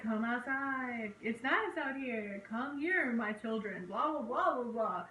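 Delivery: slow coaxing priest voice; creepy coaxing. Retold or imitated. Ghost priest calling the children outside, slow and coaxing. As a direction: lure them out, sweet and slow. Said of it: "he's like".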